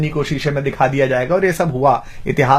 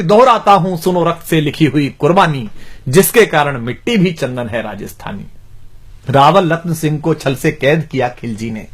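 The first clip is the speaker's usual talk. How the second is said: measured declamation of heroic verse; rhythmic Hindi verse recital; poem recitation. Acted. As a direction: recite like a poet, phrase by phrase.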